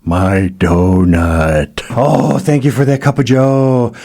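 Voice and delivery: hyper, wired on coffee; jittery caffeine rush; too much caffeine. Acted. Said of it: "I am so wired right now".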